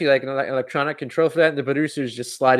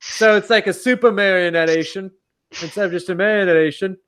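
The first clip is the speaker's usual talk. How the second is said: a lightly put-on, clumsy British accent; hint of a bad Brit impression, a bit high; 4 semitones higher than usual. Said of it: "that's the worst Brix accent you've heard".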